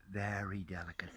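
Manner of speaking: soft unvoiced whisper. Real, not acted. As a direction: breathe it, as if the mushroom could break. Showing a delicate mushroom.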